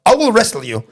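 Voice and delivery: imitating an earnest challenger; mock threat. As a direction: spell out a silly ultimatum, drawn out. Retold threat from a passenger.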